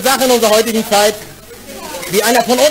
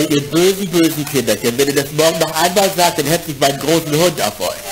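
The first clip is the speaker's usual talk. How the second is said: camp scolding; 7 semitones lower than usual. Acted. Gay man voiced scolding kids.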